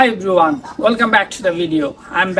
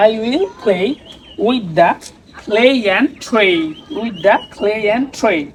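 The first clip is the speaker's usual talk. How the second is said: slow tongue twister practice; much slower than usual. Shown as a demonstration. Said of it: "tongue twister practice করব".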